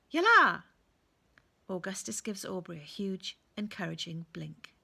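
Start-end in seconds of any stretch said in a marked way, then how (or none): 0.1-0.6 loud, high urging cry; eager shout. A narrator's reading. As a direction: launch him off with a big call. Owl urges boy to go.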